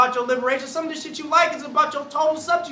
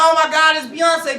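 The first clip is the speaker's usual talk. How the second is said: starstruck gasp; 3 semitones higher, 5 dB louder than usual. Retold or imitated. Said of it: "everybody like".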